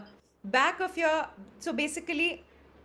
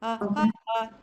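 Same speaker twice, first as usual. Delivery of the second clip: 1 breathy onset demo; 4 semitones lower, faster than usual. Shown as a demonstration. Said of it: "closer to H than to this".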